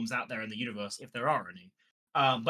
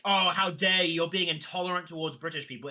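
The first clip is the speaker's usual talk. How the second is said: mock offence; 3 dB louder than usual. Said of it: "it's not like I get offensi-, offended".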